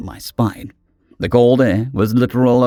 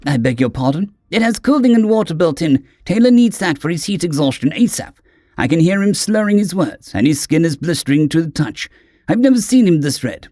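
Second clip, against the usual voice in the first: urgent worried friend; 5 semitones higher than usual. Acted. Gress urgent.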